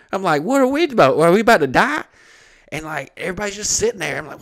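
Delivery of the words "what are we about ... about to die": high, loud alarmed questions; mock panic. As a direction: act out fearing for your life. Acted fear of being killed.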